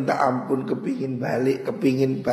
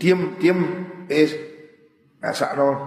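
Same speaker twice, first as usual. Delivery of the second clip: stern rebuke; 3 semitones higher than usual. Acted. God telling the wailing damned to shut up, stern. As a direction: silence them harshly. Voicing God silencing them.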